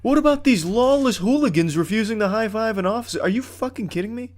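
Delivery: can't believe what just happened; outraged disbelief. Real, not acted. Gamer arrested by his captain, shouting in outraged disbelief.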